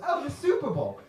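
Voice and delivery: high-pitched scornful echo; mocking repeat. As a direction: throw the name back in mockery. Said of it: "He goes".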